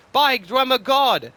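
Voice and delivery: high, loud, slow dismayed cry; wincing exclamation. Acted. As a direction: wince as you exclaim. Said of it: "his face in a wince".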